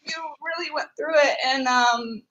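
touched. Real, not acted. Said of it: "makes me emotional".

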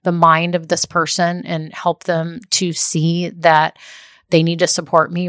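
slow, earnest little prayer; mock prayer. Praying that a family member will support her, slow and earnest.

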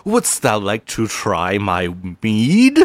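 put-on old-timey peasant voice; medieval peasant. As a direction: hawk mead like a medieval peasant. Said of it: "says something like".

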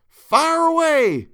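very high, loud, drawn-out yell; shout. A narrator's reading. Mob voice orders the fire lit, loud drawn-out yell. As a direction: bellow the order to burn. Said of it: "A voice shouted".

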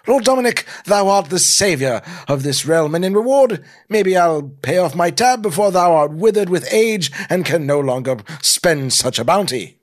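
high, loud, theatrical praise; grateful mock-archaic. Rescued subject thanking the hero, high mock-archaic gratitude. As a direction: gush grandly in olde-worlde style.

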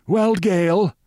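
high, silky lounging villain; soft-mannered, high-pitched suave man; soft-voiced. A narrator's reading. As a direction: purr it high, without raising volume. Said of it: "in a soft voice".

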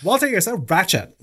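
put-on high giggly valley girl jab; laughing valley girl. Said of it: "Valley Girl".

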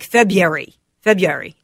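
February as FEB-yairy, three syllables; February squeezed to "Feb-yery"; shorter dialect February. Shown as a demonstration. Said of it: "variations that are shorter".

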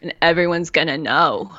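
lightly voiced raspy inner critic; Bitchy Brenda. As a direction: sneer it like a smoky inner critic. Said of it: "So Bitchy Brenda's like".

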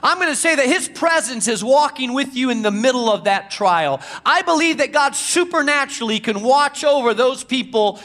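rising, emphatic preacher's appeal; fervent preaching. Acted. Pastor urging listeners to trust God at work, fervent preaching. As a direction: preach it with building conviction.

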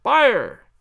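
loud, high cry of fire; a firm shouted fire. Acted. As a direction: call out the alarm on cue. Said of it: "I will trouble you once again".

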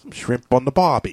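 lightly put-on Aussie catchphrase; mock Australian accent. Teasing the accent slip, mock Australian accent. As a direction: tease with a fake Australian accent. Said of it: "from British to fucking Australian".

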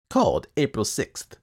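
high, loud reading from a ledger; Mr Wilde voice. Acted. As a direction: read it out like a sly clerk. Wilde adds entry.

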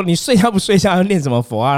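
high, loud commander telling-off; imitated scolding. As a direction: scold a recruit in a mock-officer voice. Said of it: "我连长就骂我". (模仿连长高声骂人)

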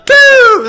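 shrieked high vocal bang; very loud cartoon shot noise; imitated gunshot.

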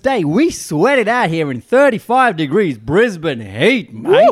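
Farhan's voice. Retold or imitated. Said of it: "Do it in Farhan's voice".

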